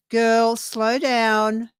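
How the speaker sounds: very slow, drawn-out reassurance; calm them down, word by word; soothing card message. Acted. Tarot card telling a viewer to relax, slow reassurance. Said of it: "the card is saying".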